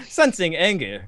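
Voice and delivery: put-on slow, drawn-out Australian accent. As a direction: say it like an Aussie, slowly. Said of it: "did I go to an Australian accent there?".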